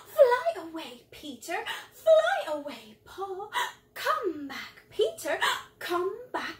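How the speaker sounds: mock-shocked nursery rhyme, starting on gasped breath. Shown as a demonstration. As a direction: recite as if taken aback, breathy at first. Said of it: "What about our shocked voice?".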